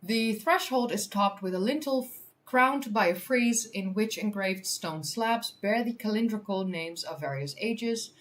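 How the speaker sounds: measured news-article reading; article read-aloud. Real, not acted. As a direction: read it out clearly for an audience.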